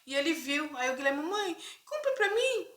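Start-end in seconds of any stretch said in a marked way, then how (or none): 1.2-2.7 put-on high, slow begging little boy; child's plea. Small son begging mother for the sweet, high slow whine. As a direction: whine it like a four-year-old asking mom.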